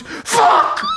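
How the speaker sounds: high, laughing yelp of shock; mock startled yelp. Man caught on the toilet as the door slides, startled yelp. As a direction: imitate a man caught out, voice leaping up.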